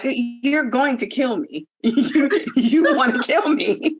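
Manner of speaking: slow, laughing mock accusation; half-laughing, drawn out. Imagined fear of stranger.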